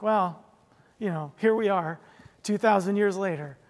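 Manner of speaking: mildly sighing, with pauses between phrases; a touch of weary resignation; resigned sigh. Acted. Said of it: "say that with a sigh".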